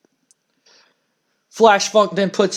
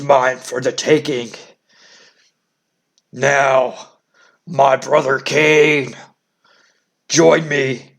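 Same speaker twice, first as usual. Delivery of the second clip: a hint of the Undertaker's dark, brooding growl; 4 semitones lower than usual. Undertaker confronts his father figure Paul Bearer, low and menacing. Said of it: "And he says".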